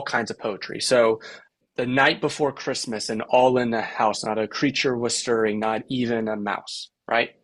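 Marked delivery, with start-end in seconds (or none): 1.8-6.9 lilting "the NIGHT before CHRISTmas", every third syllable stressed; three-beat verse rhythm. Shown as a demonstration. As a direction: recite "not a CREAture was STIRring" in a da-da-DUM beat. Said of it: "three beat syllable that puts the emphasis on the last".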